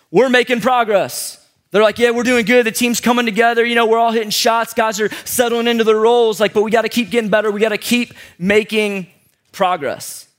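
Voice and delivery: a hint of an athlete's interview; post-game interview voice. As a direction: imitate a player after the game. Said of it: "summed up like this".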